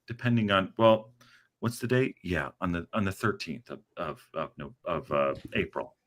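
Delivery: a husband gently coaxing his wife; playing Paddy. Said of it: "imagine it is in Paddy's way".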